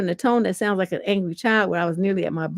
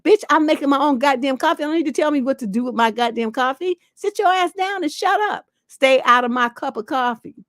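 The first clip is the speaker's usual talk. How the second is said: indignant, higher-pitched rant; acted blow-up; 4 semitones higher than usual. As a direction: lay down the law as if blowing up over someone meddling. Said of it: "that's what I would have blew".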